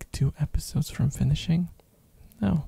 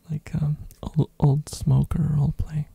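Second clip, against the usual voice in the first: ASMR whisper. Real, not acted. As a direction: whisper close to the mic.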